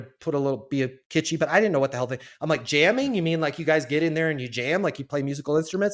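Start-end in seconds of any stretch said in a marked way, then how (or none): 2.6-6.0 high, loud playing-dumb question; mock naive. New guy playing dumb to the client, mock naive. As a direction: act innocently clueless about jamming.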